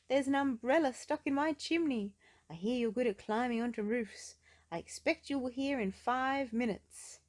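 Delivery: high, loud, bossy demand; Mister Uppity. Acted. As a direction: order her about, haughty.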